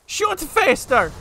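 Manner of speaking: high, drawn-out shout; loud, stretched-out gamer scream; urgent yell. Real, not acted. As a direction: yell the order slow and high. Yelling at game during fight.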